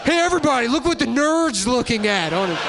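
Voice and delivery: high, loud jeering call. Retold or imitated. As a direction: announce it to the whole crowd. Bully calling out to crowd.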